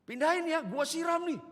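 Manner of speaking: loud, high-pitched mock threat; curt neighbour. Old woman threatens to hose the car, hammed-up angry yell. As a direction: scold loudly as the cranky neighbour. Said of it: "ketus sekali".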